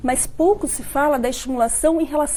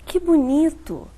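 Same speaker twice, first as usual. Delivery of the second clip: drawn out, sarcastic; slow ironic tone; 2 semitones higher, slower than usual. Shown as a demonstration. Speech therapist demonstrating ironic intonation. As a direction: say it slowly, meaning the opposite. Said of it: "eu coloquei uma entonação diferente".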